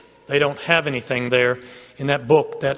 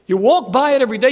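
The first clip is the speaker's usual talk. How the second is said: faster, still raised, leaning on walk; quick repeat; 6 semitones higher, 5 dB louder, faster than usual. Acted. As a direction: rattle it off a second time to press it. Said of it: "repeated faster".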